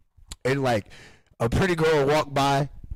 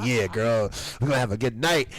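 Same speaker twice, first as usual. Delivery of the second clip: lower, smooth-talking Chris on a date; slick smooth talker; 5 semitones lower than usual. Retold or imitated. Host imitating friend sweet-talking his date, lower and smooth. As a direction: play the slick charmer. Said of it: "he's slick too".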